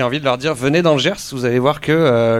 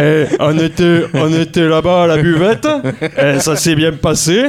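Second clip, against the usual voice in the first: lightly voiced Gers local at the bar; Gers accent; 2 semitones higher than usual. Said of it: "tout le monde parle avec la voix beaucoup plus grave".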